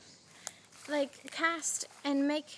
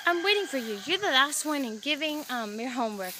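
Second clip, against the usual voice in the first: angry teacher; 3 dB louder than usual. Retold or imitated. Teacher chasing a student for late homework, mildly angry. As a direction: imitate a teacher's annoyance, easing off at the end. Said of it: "she's angry with me".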